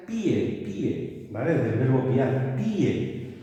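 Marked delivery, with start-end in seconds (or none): 0.1-1.3 pie as a single quick syllable; one-syllable pie. Shown as a demonstration. Teacher shows the noun pie in one syllable. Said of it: "Esta es".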